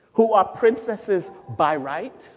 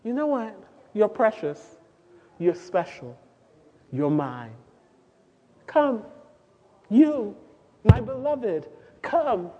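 tender loving voice; 2 semitones higher than usual. Retold or imitated. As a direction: call gently like a lover. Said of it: "in that voice that says".

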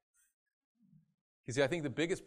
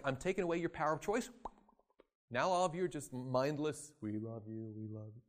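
mock controlling God. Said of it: "he's not gonna be like".

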